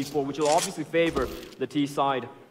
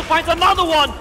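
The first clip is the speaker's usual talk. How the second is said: high shouted kill call; excited shout; 13 semitones higher, 8 dB louder than usual. Real, not acted. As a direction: yell the kill with hype. Caster yelling the kill.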